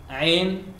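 tighten the throat and say Ain; throaty Ain. Shown as a demonstration. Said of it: "we write Ain".

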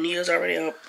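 faint French accent; Nia's already up with a slight French lilt. Real, not acted. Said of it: "You need to work on your French accent".

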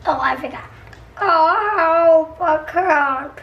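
pencil held in the mouth; pen in teeth. Real, not acted. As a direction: talk around a pen in the mouth. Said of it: "there's a pencil in my mouth".

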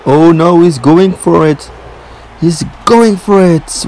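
excited commentary, slowing on the repeat; anticipating call. Real, not acted. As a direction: build suspense before a big move. Finishing move looks imminent.

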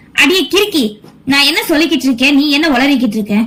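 high, fast exasperated rebuke at his wife; husband snapping, fast and high; exasperated scolding. Acted. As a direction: rattle it off, fed up with her nonsense.

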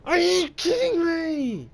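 slow, high disbelief; stunned, drawn-out complaint; panicking gamer. Real, not acted.

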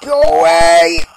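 loud, slow, drawn-out plea; scared. Real, not acted. Player ordering the monster off, scared. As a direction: stretch the words out in fear. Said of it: "I'm scared!".

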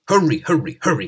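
panting. Acted. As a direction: puff it out like a straining engine. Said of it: "he panted".

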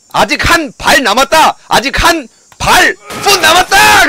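slow, drawn-out high yell; excited shout. Real, not acted. 흥분한 게임 중 외침. (느리게 끌며 신나서 외치기)

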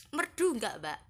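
teasing high question. Real, not acted. Teasing about her own singing.

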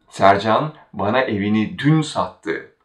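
dün made the focus before sattı; stress on dün. Shown as a demonstration. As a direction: put the weight on dün. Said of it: "Now we are focusing on the word".

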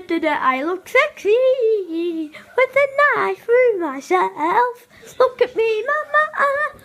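a hint of playful Mario bragging; lightly voiced Mario showing off. Kid as Mario showing off to mama, light Mario voice.

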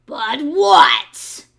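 loud impatient fox snapping but what; growled demand. Acted. Fox demands the piglet's excuse, loud and impatient. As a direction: bark it out as the hungry fox. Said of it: "growled the fox".

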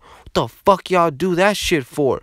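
high-pitched indignant demand; hammed-up angry complaint; imitating pissed-off friend. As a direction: act out an outraged bro. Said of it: "He was so fucking pissed".

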